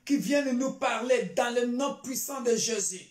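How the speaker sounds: fervent, declarative church prayer; solemn prayer petition; prayer declaration. Real, not acted. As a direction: pray it out firmly over the congregation. Leads congregation in prayer.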